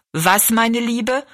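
put-on slow, questioning old lady; old woman. Deaf old woman asks Rosalie what she said, slowly. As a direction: draw it out like a hard-of-hearing granny.

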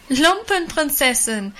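mock her with laughter; jeering laugh. A narrator's reading. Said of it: "riefen die anderen und lachten". (lachend verspottend)

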